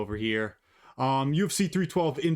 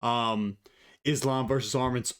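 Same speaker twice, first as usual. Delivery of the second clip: ordinary talk, nothing marked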